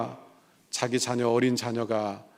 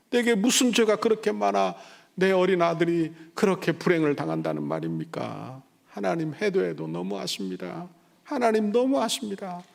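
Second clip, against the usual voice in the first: grieving complaint; 5 semitones higher than usual. Retold or imitated. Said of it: "원망과 불평을 털어놓기".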